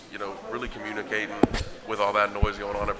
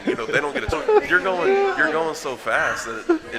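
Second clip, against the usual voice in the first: getting more and more fired up; excited; 8 semitones higher, 7 dB louder than usual. Real, not acted. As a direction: voice shooting way up and louder. Excitedly describing fast offense.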